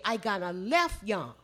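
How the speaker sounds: Gullah phrasing, falling at the end; Gullah speech. Shown as a demonstration. Teacher translating for visitors, in Gullah. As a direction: say it as a Gullah speaker would. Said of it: "we would say".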